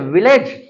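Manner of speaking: "विलेज" with an ay sound in the second syllable; common wrong pronunciation. Shown as a demonstration. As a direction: say "विलेज" as vi-layj. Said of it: "आप क्या पढ़ते हैं?".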